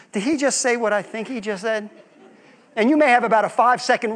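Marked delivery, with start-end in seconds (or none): 0.1-1.9 stunned aside. Retold or imitated. Parent aghast to spouse.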